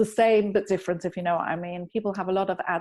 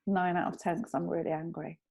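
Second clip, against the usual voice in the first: whispered anger rating; 3 semitones lower, 7 dB quieter than usual. Shown as a demonstration. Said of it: "So I'll say".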